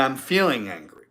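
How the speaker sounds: name the feeling gently, calm and owned; soft, measured "feeling" phrasing; calm feeling statement. Shown as a demonstration. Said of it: "big difference in how that's said".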